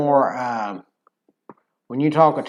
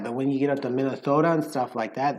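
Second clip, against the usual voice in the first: ordinary talk, nothing marked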